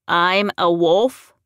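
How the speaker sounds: loud, slow disbelief; incredulous question. A narrator's reading. Larry learning from Cade he is a wolf, incredulous. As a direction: draw it out, rising in disbelief.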